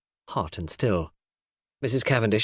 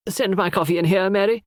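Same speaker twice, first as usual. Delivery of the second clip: calling out; 9 semitones higher, 3 dB louder than usual. A narrator's reading. Mrs Inglethorpe calling Mary from her boudoir, raised call. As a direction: voice raised to carry through the house. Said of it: "she called".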